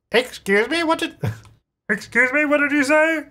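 high-pitched put-on indignant lady; lady's voice. Pregnant lady questioning the nectar guy, high mock-offended voice. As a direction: play a taken-aback lady, pitched well up.

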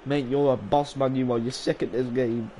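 loud mock admiration; booming ironic compliments; sarcastic praise. Real, not acted. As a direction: hype up the opponent sarcastically. Mock-praising opponent loudly.

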